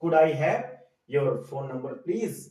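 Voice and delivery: slow teacher demo of a polite ask; polite request. Shown as a demonstration. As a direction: say it slowly and courteously. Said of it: "तो ये polite way है".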